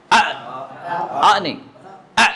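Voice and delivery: short آ stopped in the throat; letter sound demo. Shown as a demonstration. Teacher sounding hamza for students. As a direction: cut آ off sharply. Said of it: "اس کو آپ جزم لگا کے پڑھیں".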